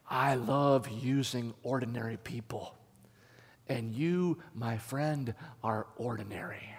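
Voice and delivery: slow, gentle voice of God, lightly acted; gentle reminder. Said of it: "He then gently reminded me".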